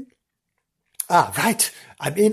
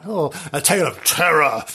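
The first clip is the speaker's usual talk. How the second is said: vintage horror narrator. Shown as a demonstration. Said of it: "Yes, better".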